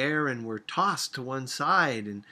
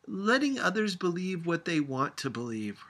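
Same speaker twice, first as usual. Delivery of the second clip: shouting back; 6 semitones higher than usual. A narrator's reading. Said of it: "her grandmother shouted back".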